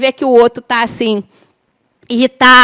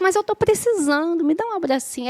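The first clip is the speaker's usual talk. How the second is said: higher and much softer, coaxing; soft pleading; 4 semitones higher, 8 dB quieter than usual. Shown as a demonstration. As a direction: plead gently for a hug. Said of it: "Aí ele não quer dar um abraço".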